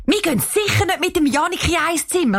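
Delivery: put-on high-pitched horrified girl's protest; appalled outcry. A narrator's reading. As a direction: cry out in dismay, voice pitched well up. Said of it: "ruft Cheyenne entsetzt". (entsetzter Ausruf, hohe Stimme)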